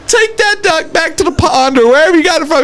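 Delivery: high, mock-shouted command; hammed-up exasperation; retold exasperated order. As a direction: act out a fed-up demand. Dealer retold, ordering duck removed.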